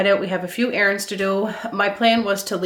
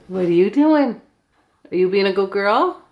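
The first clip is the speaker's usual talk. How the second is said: playful pet-talk with swooping questions; lilting, affectionate check-in with the puppy. Real, not acted. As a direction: coo questions at a little dog. Talking to her puppy Ginger.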